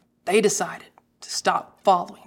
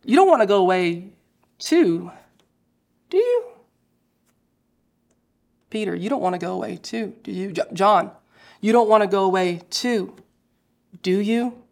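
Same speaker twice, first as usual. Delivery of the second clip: tender pleading question. Shown as a demonstration. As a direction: ask gently, hoping they stay. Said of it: "easily translates to this".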